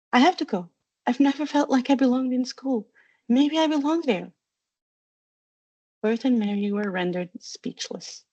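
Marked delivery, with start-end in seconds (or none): 0.1-4.3 lightly voiced crying girl; tearful pleading. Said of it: "Hermione burst into tears".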